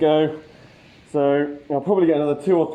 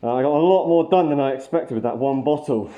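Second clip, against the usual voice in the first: muffled behind a spray mask; talking through a face mask. Real, not acted. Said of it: "Hope you can hear me through the mask".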